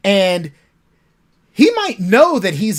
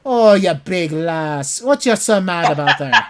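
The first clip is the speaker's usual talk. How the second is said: teasing Irish brogue. Acted. Little brother Reese taunting angry Bryce in an Irish brogue. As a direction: needle your big brother in an Irish accent. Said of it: "Reese go".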